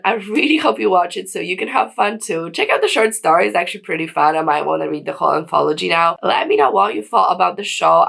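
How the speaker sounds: hoarse, croaky throat. Real, not acted. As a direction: talk through a croaky throat. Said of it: "I sound like a croaky, croaky frog".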